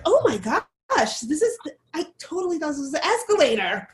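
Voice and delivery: mock shock. Mocking a shocked white onlooker.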